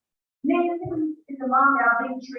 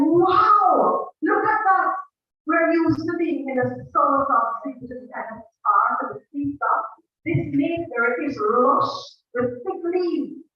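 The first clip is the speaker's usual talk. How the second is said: excited birds; 4 semitones higher than usual. Acted. Birds admire the tree.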